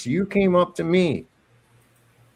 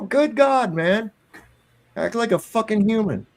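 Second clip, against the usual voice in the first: higher-pitched, exasperated questioning; incredulous mock tirade; 5 semitones higher than usual. Acting out scolding a nosy officer, incredulous. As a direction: play up the indignant disbelief.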